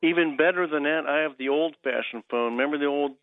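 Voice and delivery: radio caller on a landline; over a landline phone. Real, not acted. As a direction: narrow telephone sound. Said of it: "I'm on the landline right now".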